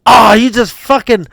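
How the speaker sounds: high, loud mock outrage; imitated angry protest. Friend reacting to a big move on him, mock outraged protest. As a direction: protest loudly as the wronged friend.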